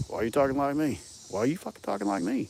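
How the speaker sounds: rising high-pitched mock protest; mock indignation. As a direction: imitate someone offended, voice climbing. Acts out insulted people confronting him.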